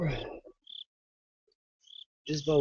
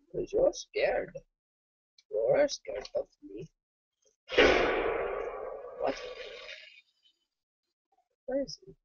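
higher teasing singsong voice; mocking high voice. Real, not acted. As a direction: tease him in a high voice.

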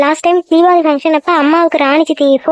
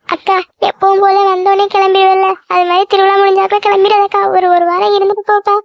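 higher voice, mildly tearful; tearful pleading; 4 semitones higher than usual. Acted. Younger sister begging elder sister to stay, mildly tearful. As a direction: plead with a touch of tears. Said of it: "அழாத".

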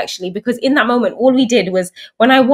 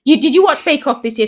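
proud announcing; 5 semitones higher, 3 dB louder than usual. Retold or imitated. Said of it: "announcing it to anyone".

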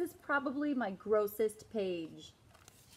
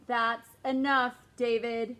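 firm, louder warning; stern mom; 6 dB louder than usual. Acted. Mom warning David, firm and loud. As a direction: put your foot down.

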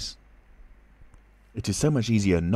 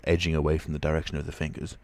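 ordinary delivery, nothing marked

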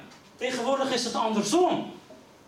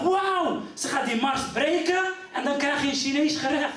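naive amazement; 3 semitones higher than usual. Retold or imitated. Naive amazed inner thought.

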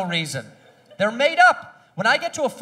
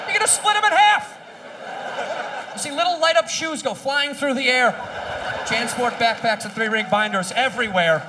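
high shocked rant; 4 semitones higher than usual. Acted. Comedian picturing kids flying, shrieking. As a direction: shriek it with mock horror. Exaggerated kid crash rant.

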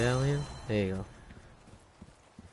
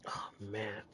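soft unvoiced whisper; 2 semitones lower, 14 dB quieter than usual. Real, not acted. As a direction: breathe it as a whisper. Quiet aside while playing.

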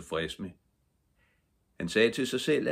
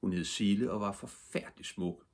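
plain reading voice

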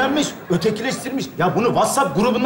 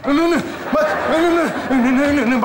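mock tic; 3 semitones higher than usual. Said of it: "Bak benim de tikim var".

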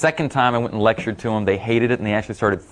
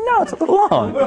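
high, laughing retort; mock-indignant insistence, laughing; insisting through laughter; 3 dB louder than usual. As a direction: push back, half laughing.

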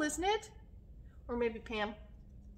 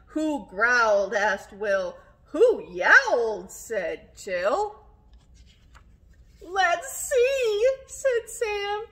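put-on story reading to children; 8 dB louder, much slower than usual. A narrator's reading. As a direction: build suspense for little listeners with punched questions. Reads a story aloud.

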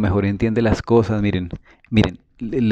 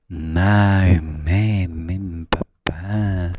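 tender coaxing; 3 semitones lower, much slower than usual. Shown as a demonstration. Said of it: "un efecto que retumba en la mente".

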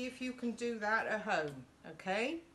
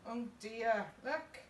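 mock dismay; 2 semitones higher, slower than usual. Reader reacts to puddle for children.

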